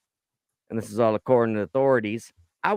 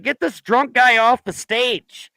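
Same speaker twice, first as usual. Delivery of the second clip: mock stern mom; 10 semitones higher, 5 dB louder than usual. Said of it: "your mom's not alive to be like".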